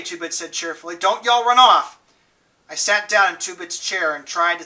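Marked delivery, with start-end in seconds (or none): 1.0-2.0 calling out. A narrator's reading. Two-Bit calling as he leaves.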